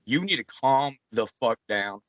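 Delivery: slow, emphatic warning; stern warning. Acted. Farmer warning a randy rooster in a joke, stern. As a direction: lay down the law slowly, word by word.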